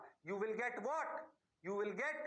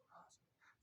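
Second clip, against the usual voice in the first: whispered mock student reply; teacher whispering as a student; whispered yes; 26 dB quieter, much slower than usual. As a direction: breathe a meek yes sir.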